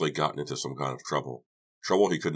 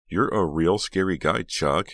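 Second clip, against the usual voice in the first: high, loud mock-impressed jab; dry sarcasm; 4 semitones higher, 6 dB louder than usual. A narrator's reading. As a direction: tease him with lilting sarcasm. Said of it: "Jade replied dryly".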